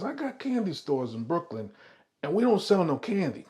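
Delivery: acted mobster with Italian accent. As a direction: drop a veiled boast in an Italian accent. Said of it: "I'm doing my Italian accent".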